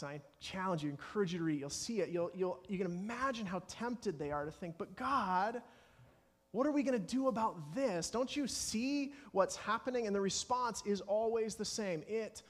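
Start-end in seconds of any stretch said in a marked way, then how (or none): 4.8-10.1 higher, mildly exasperated appeal to God; pleading protest. Acted. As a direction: act out believers pleading for an answer. Acted tempted believers questioning God.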